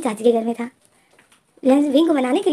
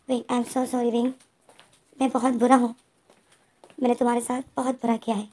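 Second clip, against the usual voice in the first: tearful apology; 3 dB quieter than usual. Acted. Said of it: "लैन जैन की आंखें नम थी।".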